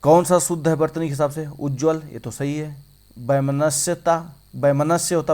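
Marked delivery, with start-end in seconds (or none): 3.2-4.3 वैमनस्यता slowly, ending in a separate ता; drawn-out wrong form. Shown as a demonstration. Teacher reading out the faulty option, drawn out. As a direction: stretch वैमनस्यता through to the added ता. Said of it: "वैमनस्यता नहीं होता".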